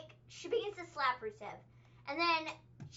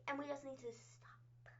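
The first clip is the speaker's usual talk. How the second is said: whisper; 15 dB quieter than usual. Real, not acted. Whispered aside in rant.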